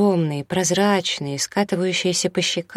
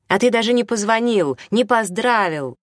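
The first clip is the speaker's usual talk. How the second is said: high accusing tone; hostile; 7 semitones higher, 4 dB louder than usual. A narrator's reading. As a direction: accuse him as if he were the enemy. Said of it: "разговаривала с ним как с врагом".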